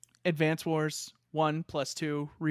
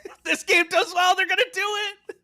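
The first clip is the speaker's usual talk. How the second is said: laughing; 14 semitones higher, 6 dB louder, faster than usual. Real, not acted. Laughing while predicting new game.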